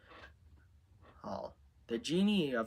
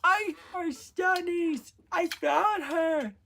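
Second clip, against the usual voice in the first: high, loud, excited outburst; 12 dB louder than usual. A narrator's reading. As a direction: blurt it out at a very high pitch, thrilled. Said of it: "Then said excitedly".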